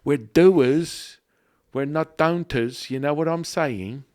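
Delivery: high, loud hyped declaration. Acted. Host hyping up his co-host with loud excitement. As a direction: pump it up like a pep rally.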